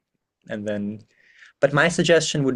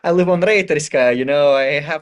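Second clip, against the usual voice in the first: higher, breezy show-off voice playing the cool Kyiv tutor; mock cool hip pitch; 4 semitones higher, 4 dB louder than usual. Speaker acting out a hip tutor's video intro, higher and breezy. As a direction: sell it like a cool, casual friend in a promo video. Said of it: "maybe the first part would be like".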